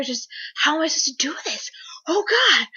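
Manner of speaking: mock panicked wail, voice rising on the last cry; pânico encenado. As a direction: replay a small freak-out, half-crying. Retelling own panic at missing Boulder.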